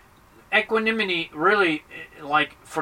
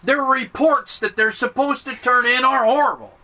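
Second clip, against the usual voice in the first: higher, insistent mock complaint; acted griping, pitched up; exasperated complainer; 4 semitones higher than usual. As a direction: argue the point in mild exasperation. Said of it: "And you go".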